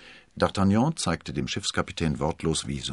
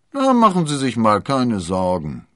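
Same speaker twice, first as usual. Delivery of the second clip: hearty, raised-voice reassurance; comforting, higher servant's voice; consoling; 5 semitones higher, 9 dB louder than usual. A narrator's reading. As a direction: cheer the master up loudly. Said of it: "tröstete Planchet".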